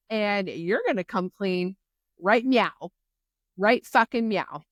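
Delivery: hammed-up furious confrontation; mock outraged yell. Riddick cornering Violet, hammed-up angry yell. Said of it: "Riddick is like".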